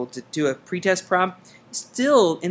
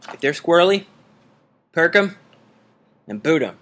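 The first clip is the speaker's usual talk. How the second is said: loud punchline; 7 dB louder than usual. Shown as a demonstration. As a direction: punch it out louder, like a slogan. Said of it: "You like that?".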